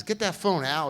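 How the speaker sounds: retold shout to a buddy; calling out. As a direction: holler for him to grab the phone.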